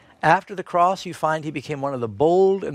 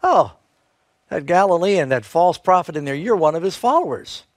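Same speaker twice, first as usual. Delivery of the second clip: put-on a servant girl's scornful jab, pitched up and louder; mocking taunt; 3 semitones higher, 4 dB louder than usual. Servant girl taunting Peter by the fire, mocking. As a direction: sneer it at him like a taunt. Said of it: "asked him mockingly".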